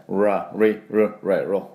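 ラ、リ、ル、レ、ロ said with English R sounds; English R drill. Shown as a demonstration. Teacher showing learners the R point, English R drill. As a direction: say ラ、リ、ル、レ、ロ with a pulled-back English R. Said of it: "発音はRがポイントですよね".

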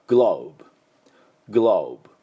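グローブ with a rounded long o; English globe. Shown as a demonstration. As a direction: say グローブ with a round o glide and a final b. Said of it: "世界を意味する、または地球を意味するやつは".

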